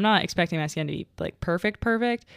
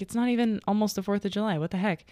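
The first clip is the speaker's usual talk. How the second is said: sleepy confusion; 4 semitones higher, faster than usual. Retold or imitated. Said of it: "at sleep brain".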